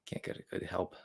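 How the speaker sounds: whispered under the breath; muttered aside. Real, not acted. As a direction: mutter it to yourself. Mumbled joke aside after thanking interns.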